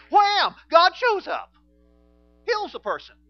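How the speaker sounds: high, loud, ringing shout; triumphant shout. Real, not acted. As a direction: proclaim it like a victory cry. Preacher's climax, God heals.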